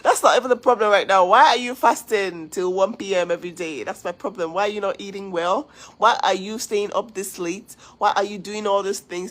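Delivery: loud retold telling-off to a friend; retold scolding. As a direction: scold her like a worried big sister. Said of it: "I was like".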